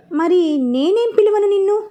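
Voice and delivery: lightly voiced innocent boy; innocent question. A narrator's reading. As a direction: ask sweetly without guile. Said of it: "అమాయకంగా".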